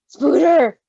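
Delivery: gasp, then a loud thrilled "Spooter!"; delighted gasp. Real, not acted. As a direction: squeal the nickname with glee. Reacting to spider warning.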